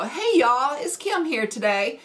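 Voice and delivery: folksy Southern hello, lifted at the start; hick Southern greeting. Shown as a demonstration. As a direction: greet viewers with a country Southern twang. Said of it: "that just sounds so hick".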